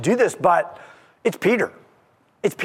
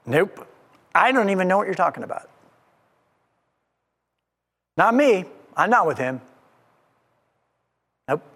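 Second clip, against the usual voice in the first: Peter's dismissive denial; faster than usual. Acted. Peter brushing off the accusers.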